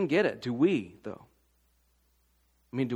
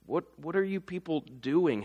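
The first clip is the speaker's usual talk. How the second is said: "What, what are you people doing?" with "are" stressed, falling, less hushed; fuller exasperated version; 6 dB quieter than usual. Retold or imitated. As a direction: ask it openly, exasperated. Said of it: "I want to say".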